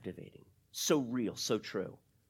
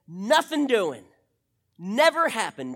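forceful refusal; 3 semitones higher, 6 dB louder than usual. Retold or imitated. Peter bluntly refusing Jesus.

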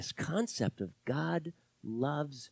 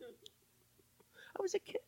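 soft aside; 13 dB quieter, much slower than usual. Real, not acted. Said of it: "So proud of myself".

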